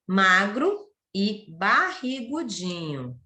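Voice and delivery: measured storybook narration with lingering key words; expressive read-aloud for young pupils; story reading to children. Acted. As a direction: tell it like a once-upon-a-time tale to kids. Teacher reads a story to pupils.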